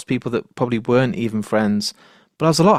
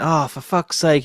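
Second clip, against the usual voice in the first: mildly exasperated, drawn-out higher retort; frustrated; 4 semitones higher, slower than usual. Retold or imitated. Band fluffing the start of a new song, mildly frustrated. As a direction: retell a musician's frustrated groan at a mistake. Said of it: "get a bit frustrated".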